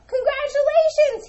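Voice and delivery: high, loud, sing-song congratulations; a showy prize announcer calling out; big congratulations. Acted. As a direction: announce the win with a flourish.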